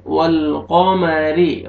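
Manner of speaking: वल कमरी with a thick, heavy क़ाफ़, slowly; heavy qaf. Shown as a demonstration. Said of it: "कॉफ को मोटा करके पढ़ेंगे". (कमरी में क़ाफ़ मोटा करके)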